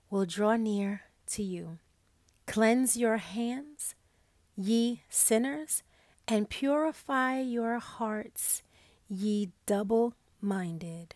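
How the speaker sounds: slow, measured Bible reading; scripture reading. Acted. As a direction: read each phrase slowly and solemnly. Reads scripture aloud.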